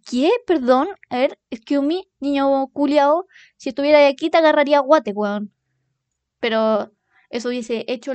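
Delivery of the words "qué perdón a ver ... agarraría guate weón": mock outrage. Furious comeback to rude kid.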